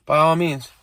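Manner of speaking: put-on a light girlfriend's voice, falling on "all"; "by all means" with the stress on "all", a hint of the girlfriend. Girlfriend quoted, then mocked back.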